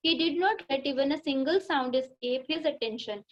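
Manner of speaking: slow, careful reading aloud to a class; teacher reading the lesson line by line; slow textbook reading. Shown as a demonstration. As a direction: read each word out slowly for the pupils.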